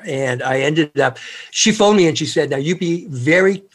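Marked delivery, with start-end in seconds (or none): 2.5-3.6 lightly voiced Scottish grandmother; imitated Scottish lilt; Scottish accent. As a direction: give it a touch of Scottish brogue. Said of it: "in her Scottish accent, her beautiful brogue".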